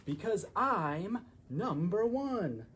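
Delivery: slow, loud brag; boastful. Acted. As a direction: draw out number one proudly. Donkey boasts.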